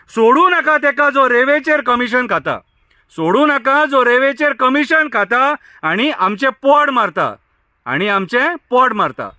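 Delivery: measured protest-poem recitation, line by line. Acted. Villager addressing Goa's ministers over the sand ban, poem recitation. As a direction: recite it as verse, each line falling at the end.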